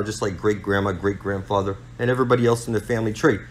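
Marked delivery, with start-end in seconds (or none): 2.0-3.4 louder, rushed threat to the listener; loud warning. Real, not acted. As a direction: hammer home the doom. Ranting preacher warning listeners.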